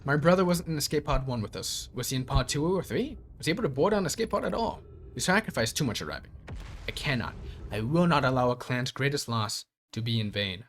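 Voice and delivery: even robot voice reading. Acted. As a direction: read it like a robot. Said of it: "I'm speaking like a robot".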